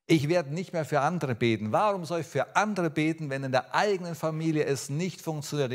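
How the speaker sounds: retold frustrated complaint to God; mildly indignant, emphatic protest; disappointed, angry protest. Preacher retelling his quarrel with God over unanswered prayer, disappointed and angry. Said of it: "Ich war enttäuscht, ich war sauer".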